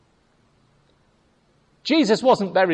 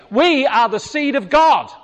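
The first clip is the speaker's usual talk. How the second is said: proclaiming shout; 4 semitones higher than usual. Real, not acted. Preacher proclaims to congregation.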